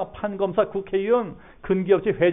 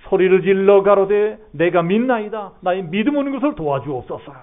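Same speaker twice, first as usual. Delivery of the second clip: 첫마디를 힘주어 크게 외치는 기도; 도와달라고 매달리듯 힘 있게; 간절한 외침; 2 semitones higher, 5 dB louder than usual. Acted. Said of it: "적극적으로 소리 지르고 적극적으로 기도하는". (소리 높여 간절히 기도하듯)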